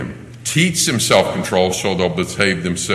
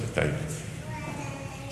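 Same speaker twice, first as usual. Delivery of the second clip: put-on very high, soft little girl voice; mock toddler thank you; tiny reluctant thank you; 15 dB quieter than usual. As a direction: squeak it out reluctantly. Toddler finally says thanks.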